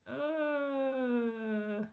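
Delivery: long, soft, drawn-out "oh"; flustered murmur. Real, not acted. Presenter struggling to share a screen, flustered murmur. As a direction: let a quiet "oh" slide slowly downward.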